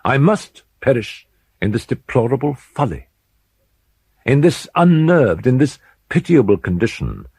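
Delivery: a frightened man foreseeing his own ruin; anguished Usher. Acted. Usher voiced in narrated tale.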